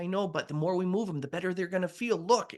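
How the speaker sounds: high, encouraging caregiver voice; acted upbeat persuasion; coaxing. Coaxing mother through physical therapy.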